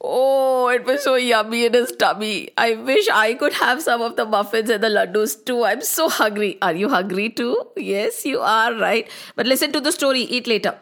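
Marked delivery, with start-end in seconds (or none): 0.0-9.1 cozy aside to listener. Real, not acted. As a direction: lean in and share a secret. Narrator hungry aside to listener.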